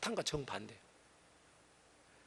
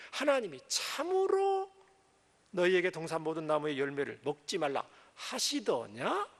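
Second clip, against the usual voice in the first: sly serpent. Acted. Serpent slyly questioning Eve. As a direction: coax like the tempting serpent.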